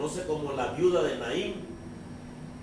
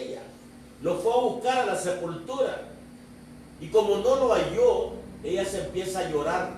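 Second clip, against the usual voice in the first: raised, emphatic sermon delivery; preaching; 4 semitones higher than usual. Acted. Preaches the Bible story. (predicación enérgica)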